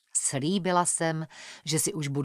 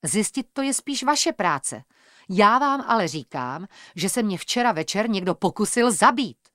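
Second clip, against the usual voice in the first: getting upset; 3 semitones higher, 4 dB louder than usual. Acted. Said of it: "Začala jsem být rozrušená".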